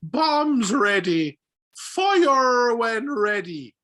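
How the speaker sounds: slow, loud, high stage-Irish war cry; stereotyped Irish accent. Acted. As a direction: bellow a drawn-out, exaggerated Irish accent. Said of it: "their example was like".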